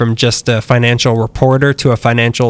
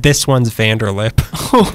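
slow ominous quote; much slower than usual. Retold or imitated. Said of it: "pointed to one ... and said".

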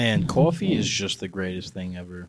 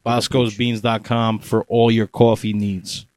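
ad read. Acted. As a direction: sell the beans like a radio spot. Mock ad read.

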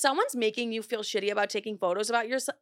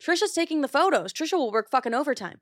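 sarcastic dismissal; 5 semitones higher than usual. Retold or imitated. Brushing off her sister who won't take photos, sarcastic. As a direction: wave her off with a sneer. Mocking Sissy's refusal to work.

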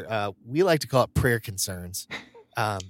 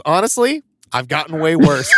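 shrugging it off; 3 semitones higher, 5 dB louder than usual. Retold or imitated. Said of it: "my buddy just looked at her and goes".

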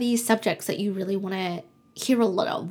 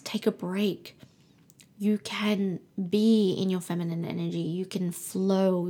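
soothing calm. Acted. Soothing the listeners to relax.

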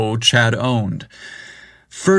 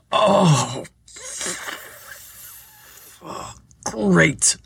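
pained sarcastic "oh, great"; sarcastic groan; 8 semitones higher, 4 dB quieter than usual. Acted. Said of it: "Briggs thought".

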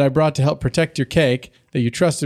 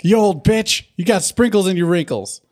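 mock insult; 6 semitones higher than usual. Acted insult to old lady.

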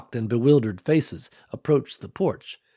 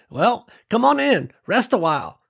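put-on strong clear old woman; 10 semitones higher, 4 dB louder than usual. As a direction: call out warmly like a grandma. Old farm woman speaks.

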